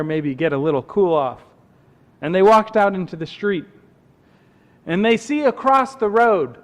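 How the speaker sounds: measured storyteller with lifted pitch; story narration. A narrator's reading. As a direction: tell it to a camp crowd, phrase by phrase. Tells a camp story.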